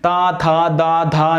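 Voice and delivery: ता था दा धा ना with the tongue touching the teeth; ta-varga demo. Shown as a demonstration. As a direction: recite ता था दा धा ना slowly, tongue on teeth. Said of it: "ना बोल के देखिए".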